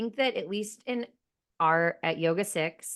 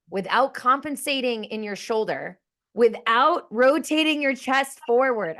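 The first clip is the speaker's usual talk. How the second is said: raised, higher teacher's cue; screaming into mic; 7 semitones higher, 5 dB louder than usual. Acted. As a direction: push the instruction out loud and high, building as it goes. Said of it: "I'm screaming into my mic".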